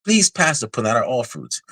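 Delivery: high-pitched polite diner's request; upscale restaurant diner. Retold or imitated. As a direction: imitate a genteel diner in a commercial. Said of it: "another person was like".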